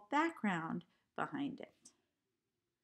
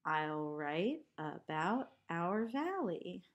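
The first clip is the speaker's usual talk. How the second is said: slow recited line; slower than usual. Shown as a demonstration.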